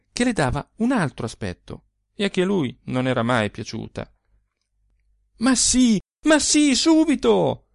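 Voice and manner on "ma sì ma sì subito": higher, louder eager cry; joyful shout. A narrator's reading. Husband crying out to his wife, loud and higher. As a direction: burst out with delight, loud and high. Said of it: "le gridò".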